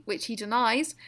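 put-on slight New Zealand accent, rising end; a hint of a Kiwi accent; light Kiwi accent. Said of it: "Put on a bit of a Kiwi accent then".

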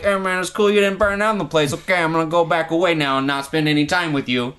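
quick, lightly mocking imitation of offhand relatives; mock indifference. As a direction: rattle it off like you can't be bothered. Parodies family's indifferent homecoming.

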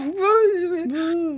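high, drawn-out fake crying; mock wail. Fan rebuffed by his favorite band guy, high mock wail. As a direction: wail like a crushed fan, hammed-up.

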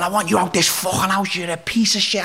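high-pitched imitation of a furious mum; mock screech without much extra volume; retold screaming row. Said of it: "started screaming at each other".

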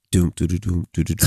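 low, gloomy "doom doo doo"; sad update noise. Shown as a demonstration. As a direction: hum a mournful sting. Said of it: "'cause you sounded so sad".

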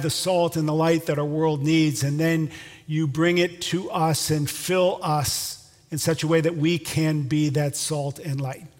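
earnest spoken prayer, slowing in places. Acted. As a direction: pray for the congregation aloud. Closing prayer.

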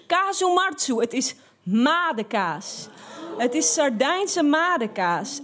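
mock the chef's triumphant shout; chef calling out. Chef laughing, telling the narrator it's maggot cheese. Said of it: "En hij riep".

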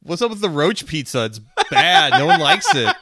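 high, loud mock kid prank caller; a kid prank-calling Pizza Hut in a squeaky voice. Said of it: "And I'm like".

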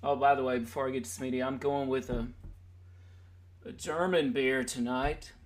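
ordinary talk, nothing marked

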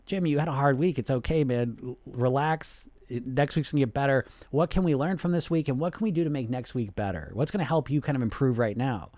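mildly soothing coach voice; gently steady someone and move them on; encouraging. Acted. Coach helping Jim after a hard week, mildly reassuring. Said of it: "We wanna develop this voice".

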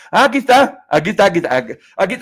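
high, loud sing-song "here she is"; sing-song excitement. Pretend. Playfully spotting Linda in chat.

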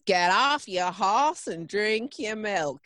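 slow, drawn-out attempt at an American accent; mock American cowboy accent. Shown as a demonstration. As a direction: have a doubtful go at American. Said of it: "Is that American?".

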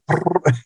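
quick fluttering trill; imitated rippling noise. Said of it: "these ripples and be like".

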